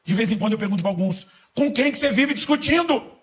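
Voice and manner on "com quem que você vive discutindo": much higher, louder and slower, teasing disbelief; exaggerated mock surprise, drawn out high; mock incredulous question. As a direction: ask it like you can't believe they argue with themselves. Mocking question to believers.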